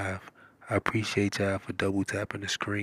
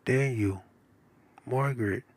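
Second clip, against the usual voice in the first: calling out; 4 semitones higher, 3 dB louder than usual. A narrator's reading. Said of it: "called Mom".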